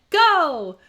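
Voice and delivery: loud high go; cheerful shout of go; called-out go. A narrator's reading. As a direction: call it out like a starting signal. Traffic light chant.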